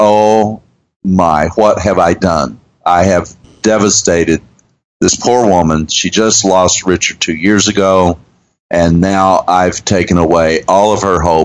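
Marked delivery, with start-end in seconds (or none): none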